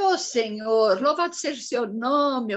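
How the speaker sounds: a touch of tearful worship; tearful praise. Retold or imitated. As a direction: voice catching with emotion as she praises. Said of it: "eu fiz assim".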